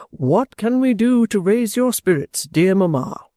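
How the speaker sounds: a hint of a worried little child; little child's voice. A narrator's reading. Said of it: "says the little child".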